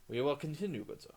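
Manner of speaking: mock-heroic. Mock-heroic speech in game.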